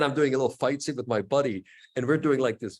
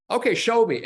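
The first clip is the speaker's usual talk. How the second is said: high, loud eager order; lively quoted Van Damme; eager command; 10 semitones higher, 6 dB louder than usual. Retold or imitated. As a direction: bark out the challenge with a grin. Van Damme voiced in story.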